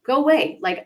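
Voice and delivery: mock cranky shooing everyone off; grumpy go away. Burned-out coach snapping at cheerful greetings, mock cranky. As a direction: grumble at the world to leave you be. Burnout grump, acted self quote.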